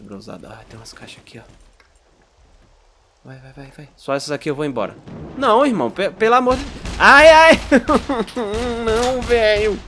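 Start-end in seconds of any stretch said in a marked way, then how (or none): 5.4-9.8 high, loud frantic cries; panicked shouting. Real, not acted. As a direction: yell in real alarm. Caught, panicked outburst.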